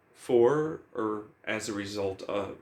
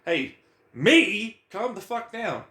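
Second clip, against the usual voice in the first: talking to himself; 5 semitones higher, much slower than usual. Retold or imitated. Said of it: "And it's like".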